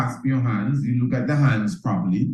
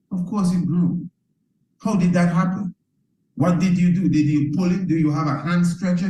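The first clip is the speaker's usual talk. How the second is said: higher, lively rhetorical astonishment; mock amazement; 6 semitones higher than usual. To viewers, a hammed-up amazed questioning. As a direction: play up the amazement.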